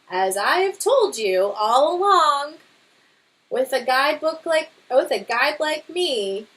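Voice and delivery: lively storybook read-aloud; reading to children. Acted. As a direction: read it to a class, bright and expressive. Teacher reads picture book aloud.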